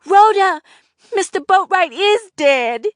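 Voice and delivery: high, loud shout across the room; hollered. A narrator's reading. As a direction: call out the death in alarm. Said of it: "I hollered".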